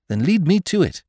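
rally the valet to action; urgent young master. A narrator's reading. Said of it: "Bertie giving orders".

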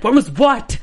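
baffled high what was what; puzzled squeak of a reply; confused. Retold or imitated. Student baffled by teacher's question, high and loud. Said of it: "I was like".

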